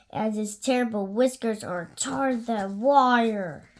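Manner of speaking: hint of a scary tale told to a child; spooky warning. Gruffalo warning his child, mildly spooky.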